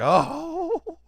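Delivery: light imitated fainting "oh"; mock faint gasp. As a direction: play a swoon, half-joking. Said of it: "faint, like".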